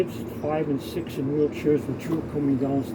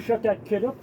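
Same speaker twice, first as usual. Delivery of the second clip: mildly yelled retort from a crowd; retold yelling; 5 semitones higher than usual. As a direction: imitate irritated strangers yelling. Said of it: "The people were yelling".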